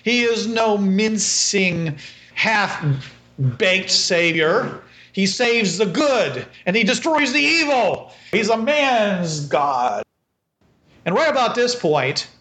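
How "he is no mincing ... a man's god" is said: slow, preaching priest with swelling fervour; zealous priest. Acted. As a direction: hail him like a fervent preacher.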